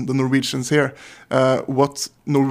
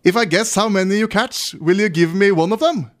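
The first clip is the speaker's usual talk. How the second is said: raised, lively joke voice; Ole character voice; 5 semitones higher than usual. Acted. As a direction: pitch up for Ole the Norwegian. Joke dialogue, Ole's voice.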